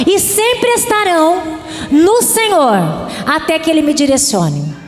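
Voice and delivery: a chanted declaration rising in pitch and loudness; call and repeat. Shown as a demonstration. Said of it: "Diga assim comigo".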